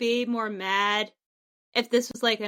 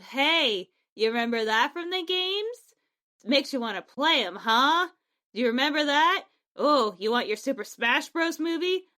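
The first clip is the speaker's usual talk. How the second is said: lightly mock salesman, questions lifting at the ends; teasing fan-service pitch; 3 semitones higher than usual. Speaker mimicking a studio baiting Mario fans, teasing. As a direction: dangle it at the fans, nudging and goading.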